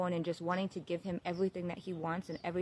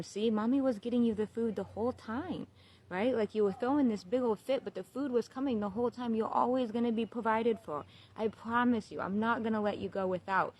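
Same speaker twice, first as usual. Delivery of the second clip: put-on higher-pitched, reassuring talk to a baby; mom reassuring baby; 4 semitones higher than usual. Mother telling her newborn he'll be provided for, reassuring. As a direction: gently explain it to the baby, pitched up. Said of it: "I talk to him like an adult".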